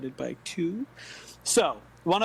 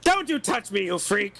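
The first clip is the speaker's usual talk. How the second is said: put-on angry old woman; 3 semitones higher, 6 dB louder than usual. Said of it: "old woman".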